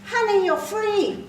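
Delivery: high, loud, drawn-out proclamation; zealous American stranger. Acted. Activist woman telling stranger of liberation, high zealous shout. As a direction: announce it slowly and loudly, as great news.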